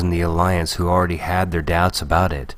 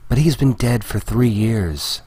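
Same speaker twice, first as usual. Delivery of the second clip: higher-pitched, gentle objection; gently disbelieving; 6 semitones higher than usual. A narrator's reading. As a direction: gently question what a friend believes. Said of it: "Leia said gently".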